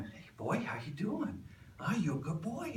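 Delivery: put-on high, coaxing pet voice rising on boy; gentle high cooing to a dog; sweet dog talk. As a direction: coo at a nervous dog to win him over. Coaxing a nervous kennel dog.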